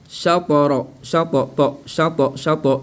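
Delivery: "Shatara" with heavy t released, sha-to-ro; qalqala. Shown as a demonstration. Teacher applies the rule to ta, qalqala. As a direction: bounce the t in "Shatara". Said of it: "il faut appliquer qalqala".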